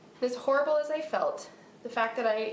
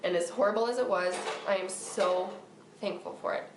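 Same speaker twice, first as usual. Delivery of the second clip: tearful; 3 semitones lower than usual. Real, not acted. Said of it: "Okay, I'm good now".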